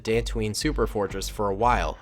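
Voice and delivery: measured story reading; story narration. A narrator's reading. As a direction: narrate the tale in an even voice. Reads the story aloud.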